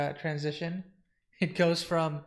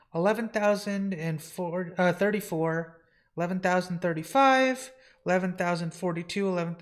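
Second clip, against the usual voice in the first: lightly acted singsong tallying; census counting; 3 semitones higher, 3 dB louder than usual. Census taker tallying the entities aloud, methodical.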